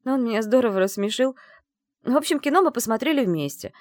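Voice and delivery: high, loud rushed confession; blurting confession. Acted. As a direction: spill it all at once. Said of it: "Как на духу выложила я".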